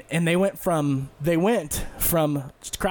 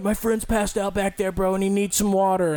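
dude asking for water; 4 semitones higher than usual. Retold or imitated. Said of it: "this dude rolled up to me like".

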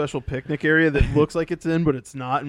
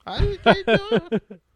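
mocking whine; 13 semitones higher, 5 dB louder, slower than usual. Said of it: "He's all".

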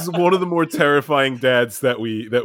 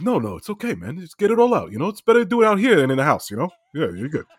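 friend's dad impression; faster than usual. Dad reassuring kid throwing up, light impression. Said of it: "But he was like".

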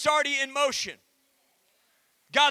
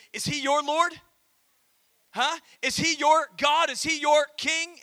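call-out; 3 semitones higher, 3 dB louder than usual. Real, not acted. Preacher calling out to congregation.

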